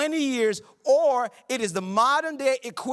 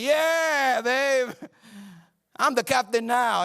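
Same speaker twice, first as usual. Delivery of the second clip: pumped; 3 semitones higher, much slower than usual. Retold or imitated. Newlywed husband bragging to his wife about sixty dollars, excited. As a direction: crow like you just got paid. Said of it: "And I was so pumped".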